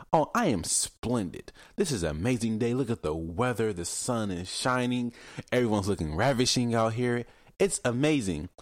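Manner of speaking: lightly prim, delighted small talk; posh cheerful talk. Retold or imitated. Mocking people's chirpy small talk, lightly prim. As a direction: gush about the weather, a touch prissy. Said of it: "they talk like".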